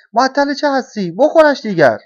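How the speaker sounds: high, loud egging-on; urging on. A narrator's reading. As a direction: push them impatiently to get on with it. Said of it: "کلاغ پیر او را تشویق کرد".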